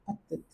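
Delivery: पत्तित with a clear final t; French petit. Shown as a demonstration. Teacher models पत्तित, sounding the final t. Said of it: "तब आप इसको जो है लिखोगे".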